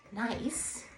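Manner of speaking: slow, high, loud grave pronouncement; solemn. Acted. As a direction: declare it as sacred truth. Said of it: "said the water rat solemnly".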